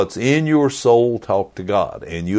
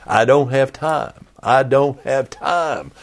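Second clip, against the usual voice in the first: higher, insistent mock protest; whiny rising protest; 5 semitones higher than usual. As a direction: pitch the excuse up insistently. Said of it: "many of you are gonna say".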